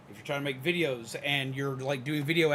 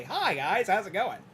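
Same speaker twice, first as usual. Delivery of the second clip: YouTuber greeting; 5 semitones higher than usual. Retold or imitated. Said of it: "We've even learned the YouTuber voice".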